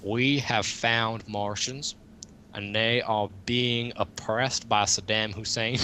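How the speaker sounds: hammed-up patriotic announcement; pompous American official. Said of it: "America would be the first one saying".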